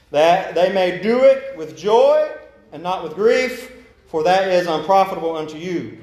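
solemn slow Bible reading; slow scripture reading. Shown as a demonstration. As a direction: read each phrase slowly with pauses. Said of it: "I'm gonna read it slowly".

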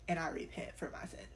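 humble whispered confession; whispered prayer. Shown as a demonstration. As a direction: breathe it out to God in a whisper. Kneeling prayer before God.

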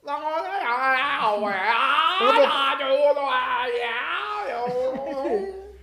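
long wailed stream of nonsense syllables; mock dialect gibberish. Imitating the chifa man's dialect, wailed mock gibberish. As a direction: wail fake foreign gibberish, drawn out. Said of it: "en un dialecto".

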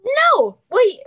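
sudden high loud no; shocked no. Real, not acted. Friend hearing the spoiler, shocked outburst. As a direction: blurt it out in shock.

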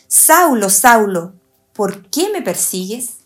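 measured, emphatic Bible reading; scripture reading. Acted. Teacher reads Saulo's fall to listeners, emphatic scripture reading. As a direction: read the verse out with deliberate weight.

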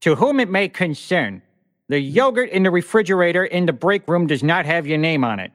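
mock formal character voice. Cohost reads break-room memo in a mock character voice. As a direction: read the office memo like a prim character, lightly. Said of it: "reading all of my emails in different character voices".

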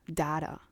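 "Data." said tata, short a; flat short a "Data.". Shown as a demonstration. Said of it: "I don't know if data or data is British English".

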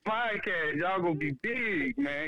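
lightly voiced rapper catchphrase; a rapper's sound bite. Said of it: "So when I say M C".

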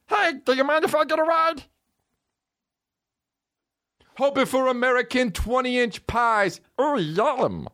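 hammed-up R&B guest voice; mock R&B singer. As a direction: croon it like an R&B singer. R&B singer cameo parody.

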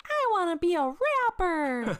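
put-on high, eager little-boy voice; a rapper as kid. Retelling the video's young dreamer, high mock-kid voice. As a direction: chirp it up like a hopeful child. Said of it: it's the rapper "as a kid".

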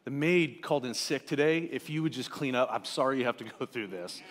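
mock-apologetic, understated sarcasm; a little snarky. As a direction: feign sympathy with a dry, soft edge. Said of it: "I'm a little snarky".

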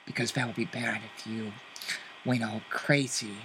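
Joker menace. Acted. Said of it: "Joker lines quoted to guest".

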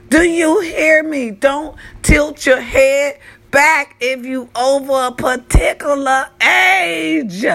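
high, slow, drawn-out admonishment; comic public-service warning, stretched out; emphatic warning. Real, not acted. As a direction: drive the warning home word by word. Mock-stern warning to viewers.

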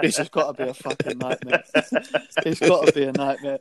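half-laughing inner panic; retelling the surgery wake-up, laughing; laughing disbelief. Retold or imitated. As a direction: laugh through the thought. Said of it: "I thought".

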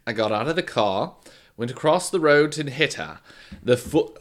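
lightly put-on, overly formal British voice; formal British accent. Podcaster retrying killer's statement, too-formal British accent. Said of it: "well, now he's too formal".

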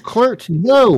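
high, loud mock shout; acted yell. Reading out Teddy's yell from the comic, mock shout. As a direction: yell it like a comic-book hero. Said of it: "and Teddy yells".

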